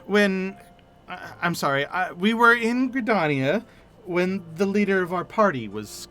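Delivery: lightly voiced, hesitant, stumbling young adventurer; shy widow-to-be speaking of her dead fiancé; a hint of a nervous, mournful young woman; timid grieving young woman.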